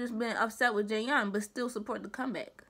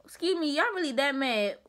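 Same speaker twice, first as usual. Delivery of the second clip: incredulous retort; 3 semitones higher, 3 dB louder than usual. Retold or imitated. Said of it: "I'm like".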